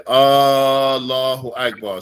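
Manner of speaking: slow Allahu Akbar, the first A drawn out; teacher repeating the wrong form; wrong long hamza. Shown as a demonstration. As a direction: stretch the A of Allahu too long. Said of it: "So you don't say".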